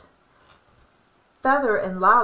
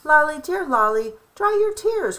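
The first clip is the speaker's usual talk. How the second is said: mild comforting; 6 semitones higher than usual. A narrator's reading. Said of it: "Crow cried".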